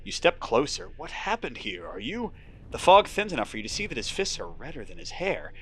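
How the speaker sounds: steady storyteller read; moody game narration; story narration. A narrator's reading. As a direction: draw the listener into the fog. Narration continues.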